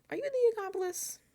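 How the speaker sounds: jab the question like a clumsy accuser; mock accusation. Jimmy pointing fingers at Rachel, mock accusing.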